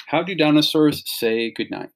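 put-on lively storybook read-aloud to kids; animated picture-book reading; reading to children. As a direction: read it like bedtime story time for a class.

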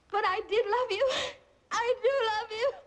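loud, pleading confession of love; impassioned declaration. Acted. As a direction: pour it out with force.

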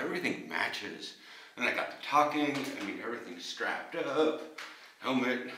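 talking around mouthguard; mouthguard in mouth. Real, not acted. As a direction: through football helmet. Seen 2: Blue guard visible between teeth behind helmet facemask while speaking.

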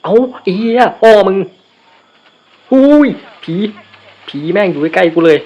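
high, loud panicked yell at a ghost; startled scream. Real, not acted. Jump-scared by a ghost in the game, screaming in fright. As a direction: shriek in sudden fright, swearing.

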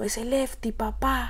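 a light, brief take on a rapper's signature drop; the rapper's tag. Retold or imitated. Rapper quoting another rapper's signature tag, lightly imitated. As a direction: toss it off like the rapper's shout-out. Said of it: "no sé si has escuchado a un rapero, que es como".

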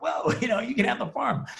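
high, eager mock astonishment; a hint of a grateful old man offering everything; old man delighted at the offer, hammed-up wonder; amazed old man. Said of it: "And this guy's like".

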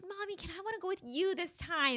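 put-on high little-girl voice for her daughter; daughter's voice. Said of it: "she's like".

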